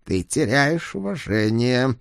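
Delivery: quiet growl. Acted. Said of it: "тихо прорычал бывший бог".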